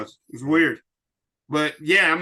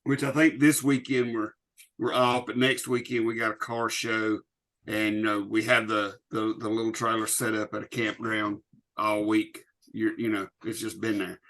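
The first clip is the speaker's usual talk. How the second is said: muffled; 4 semitones lower than usual. Real, not acted. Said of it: "you're muffled all of a sudden".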